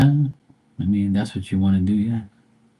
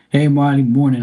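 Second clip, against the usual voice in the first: raised, higher call across the yard; calling out a greeting; 6 semitones higher, 6 dB louder than usual. Real, not acted. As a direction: hail the neighbor from a distance.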